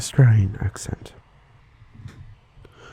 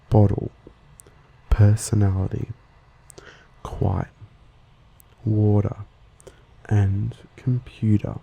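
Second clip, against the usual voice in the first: American or Australian accent. Shown as a demonstration. Host contrasting with British, general Australian or American accent. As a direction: say each word with general Australian flapped T. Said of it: "in American accent or in most general Australian accents".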